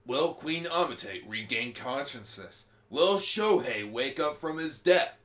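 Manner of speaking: announcer voice. Pretend. Parody next-episode narrator.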